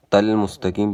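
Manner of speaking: تل as "tal" instead of heavy "tol"; light dental t opening تل; mistaken light t. Shown as a demonstration. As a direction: say تل مستقیم with a thin t and short "a". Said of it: "یہ بھی غلط ہو جائے گا".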